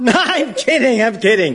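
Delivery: laughing tease. Acted. Pursuer retracting a cruel joke about pig, laughing. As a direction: laugh off your own prank. Teases after fake bad news.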